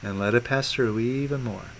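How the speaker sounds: calm guidance. Real, not acted. Guides client through releasing.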